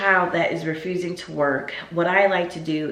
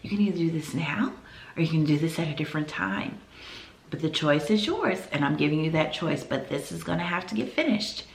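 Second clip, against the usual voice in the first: softly spoken, even-toned choice; calm, firm; 4 dB quieter than usual. Acted. Teacher giving a refusing child a choice, calm and quiet. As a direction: lay it out quietly without scolding. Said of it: "get back down on their level".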